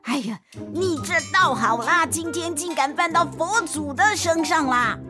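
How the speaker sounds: put-on furious old temple keeper; angry old man. A narrator's reading. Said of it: "老爷爷更生气了".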